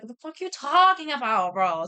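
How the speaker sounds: hammed-up indignant quote; mock-indignant outburst. Acted quarrel between story dads.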